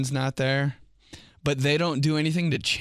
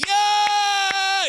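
put-on high, loud kid's cheer; a kid yelling yeah at a game; 5 dB louder than usual. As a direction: cheer like an excited little kid. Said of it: "kind of like a kid".

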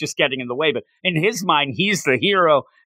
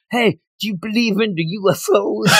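put-on playful girl quote; 7 semitones higher than usual. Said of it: "Remember when she ... with him".

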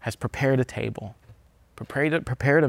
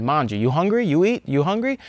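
booming sing song welcome; 4 semitones higher than usual. Retold or imitated. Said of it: "the thing that you will hear at the table".

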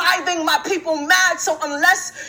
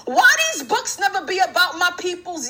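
casual street register. Retold or imitated. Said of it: "pause the intellectual sound and flow to ask".

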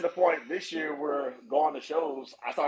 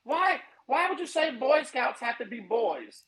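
higher, slow mock outrage; 10 semitones higher, slower than usual. Mocking offended people, high and slow. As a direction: whine it like a silly critic. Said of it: "it's like".

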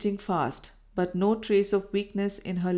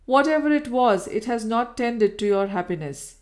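louder, rising over her; the old power over her returns; pressing on; 3 semitones higher, 5 dB louder than usual. Acted. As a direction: take back control of the talk.

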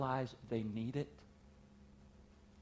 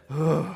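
mock groan; 6 dB louder than usual. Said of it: "He said".

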